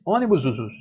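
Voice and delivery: "Ônibus, usus" emendado, com final repetido; plural errado de brincadeira. Shown as a demonstration. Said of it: "Não, não tem plural". (plural errado "Ônibus, usus", como palavra única)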